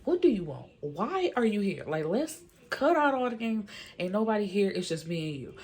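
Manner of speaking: demanding, mildly acted-out showdown; retold confrontation. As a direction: confront her, acting out the other woman. Retold confrontation, Liz challenges Caitlyn.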